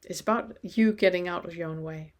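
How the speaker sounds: usual speaking voice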